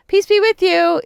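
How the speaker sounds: high, over-cheery greeting; happy greeting. Retold or imitated. Churchgoer at meet and greet, overly happy. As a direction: greet them with too much happy energy. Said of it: "with my happy, like, probably annoying energy".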